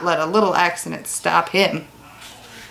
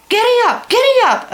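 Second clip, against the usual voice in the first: high, loud call to the oxen; boy shouting at his steers; shouted command; 4 dB louder than usual. A narrator's reading. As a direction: yell it at the team to move. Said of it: "Almanzo kept shouting".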